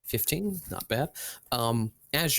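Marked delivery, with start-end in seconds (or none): 0.0-0.6 surprised. Real, not acted. GM hears a high roll.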